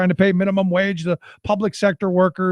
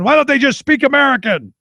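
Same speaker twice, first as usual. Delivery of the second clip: a mocking, slightly higher take on a politician's line; mocking Palin quote; 5 semitones higher, 3 dB louder than usual. Radio host mockingly quotes a politician's line, mildly higher and louder. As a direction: toss it off like a sneering soundbite. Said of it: "to steal a line from, from Sarah Palin".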